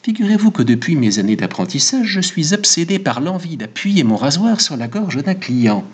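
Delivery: lightly voiced barber, pitch rising as he confesses; a hint of an excitable barber; eager barber. Barber confesses his razor obsession to Goludja, mildly excitable.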